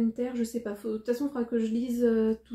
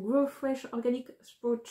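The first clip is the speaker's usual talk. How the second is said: English read with a French accent; French speaker's English. Real, not acted. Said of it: "mon magnifique, euh, accent, euh, anglais".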